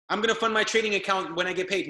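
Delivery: quick whiny-excuse parody of a procrastinator; mocking excuse-maker. Coach mocks a member putting it off till tomorrow, fast and mocking.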